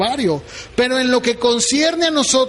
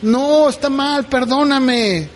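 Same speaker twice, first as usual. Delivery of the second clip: slow plea; 3 semitones higher, slower than usual. Retold or imitated. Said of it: "qué me va a decir".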